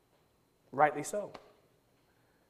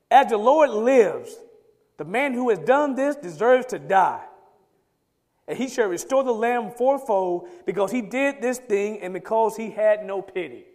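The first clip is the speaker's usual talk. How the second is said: angry outburst; 4 dB louder than usual. Acted. A king outraged by the rich man's theft, loud angry verdict. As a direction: thunder out the sentence, each word weighed. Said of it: "Then David's anger was greatly kindled".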